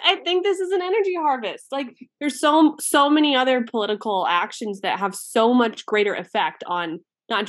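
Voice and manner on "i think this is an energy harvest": high airy hippie lilt. Retold or imitated. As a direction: float it like a dreamy hippie. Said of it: "in, like, the most hippie way of all time".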